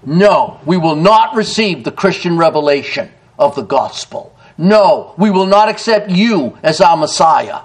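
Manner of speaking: firm stress on each NO and on NOT; emphatic denial. Acted. Nation refusing its Messiah, NO said with emphasis. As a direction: land NO hard, then press the refusal. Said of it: "and it's with emphasis".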